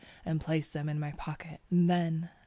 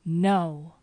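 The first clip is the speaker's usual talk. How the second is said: short, louder refusal; shouted; 6 dB louder than usual. A narrator's reading. Narrator refusing to leave with his cousin, shouting. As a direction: cut him off with a raised voice. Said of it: "I shouted".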